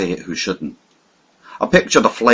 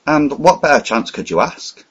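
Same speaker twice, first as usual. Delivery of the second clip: eager cry; 6 semitones higher than usual. Acted. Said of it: "I cried".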